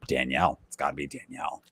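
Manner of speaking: low, hushed mock aside; retold furtive aside. Podcaster voices Russell turning to Jerry, hushed aside. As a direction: drop low and very soft, imitating a secret pitch.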